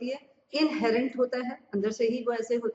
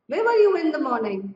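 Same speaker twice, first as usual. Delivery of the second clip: slow, louder example question; slow example read; 4 semitones higher, 6 dB louder, much slower than usual. Shown as a demonstration. Teacher slowly giving a correct example to students. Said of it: "वो भी ठीक है".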